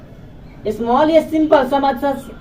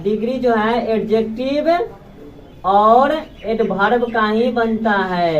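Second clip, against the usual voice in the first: each word drawn out for the class; slowed classroom repeat; slow dictation; 3 semitones lower, slower than usual. Shown as a demonstration. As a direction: spell it out slowly for note-taking. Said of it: "repeated slowly".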